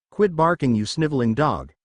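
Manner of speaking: swat Joey away with disdain; annoyed. Acted. Kaiba snubbing Joey, lightly annoyed. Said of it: "Kaiba said, annoyed".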